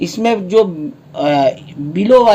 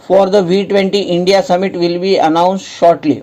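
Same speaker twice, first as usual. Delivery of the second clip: slow reading aloud; much slower than usual. Real, not acted. Reading English offer text slowly.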